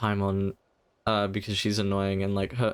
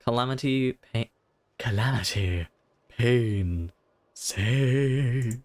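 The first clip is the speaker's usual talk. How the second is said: spooky ghost voice; slower than usual. Acted. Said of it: "top tier voice acting".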